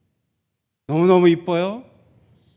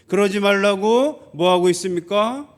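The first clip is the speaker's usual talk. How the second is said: ordinary talk, nothing marked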